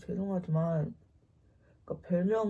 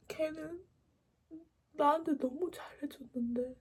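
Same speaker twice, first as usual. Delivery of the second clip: imitated crying; 8 semitones higher than usual. Sister lamenting that she dumped him, mock sobbing. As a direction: start small and high, then wail it. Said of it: "이러면서 우는 거예요".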